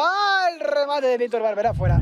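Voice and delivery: high, loud groan at a miss; near miss gasp. Real, not acted. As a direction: react to a shot going wide.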